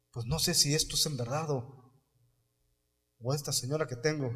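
low, hushed wondering to himself; a hushed, doubtful aside; quiet musing. Retold or imitated. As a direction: mutter it softly, half to yourself. Potiphar wondering aloud, retold.

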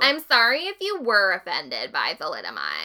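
insincere corporate apology; fake apology. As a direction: say sorry without meaning it. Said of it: "Grunenthal finally issued an insulting apology".

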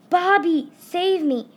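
high, loud cry for rescue; screaming for help. A narrator's reading. Ralph calls from the cannon to his brother, screaming. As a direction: scream desperately to your brother. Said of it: "started screaming".

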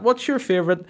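squeaky creepy fan impression; mock creepy listener asking sex questions; weird listener. Imitating weird questioner again.

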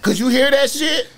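high, loud disbelieving question; loud, high-pitched disbelief; incredulous. Real, not acted. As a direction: ask it like you can't believe it.

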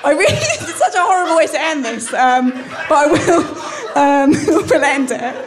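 breaking into laughter mid-sentence; laughing. Real, not acted. Embarrassed laughing at own bleak ending.

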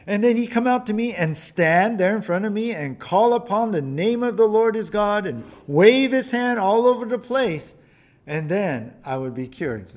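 the offended general protesting, voice up high and loud; angry general. Acted. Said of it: "Naaman was angry and went away saying".

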